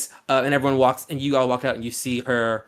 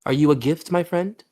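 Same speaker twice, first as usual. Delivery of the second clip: eerie host; 3 semitones higher than usual. Acted. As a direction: sound oddly delighted. Host talking to cheese-suit PC.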